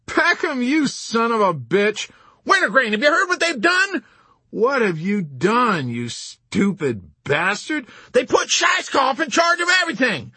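high, loud furious shrieking; enraged, panicked yelling; shrieking with rage and panic. A narrator's reading. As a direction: scream abuse down the phone. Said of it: "shrieking with rage and panic".

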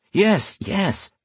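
high, dismissive impatience; impatient. A narrator's reading. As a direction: brush off the chatter. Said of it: "the other man said impatiently".

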